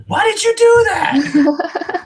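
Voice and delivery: high, slow, laughing through it; laughing question. Retold or imitated. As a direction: ask while cracking up. Asking Tyler, laughing.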